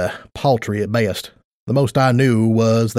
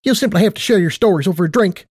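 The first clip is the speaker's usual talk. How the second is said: much higher, perky affectionate mare; perky Tight Lips voice; 7 semitones higher, faster than usual. Acted. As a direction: play a bubbly casino boss.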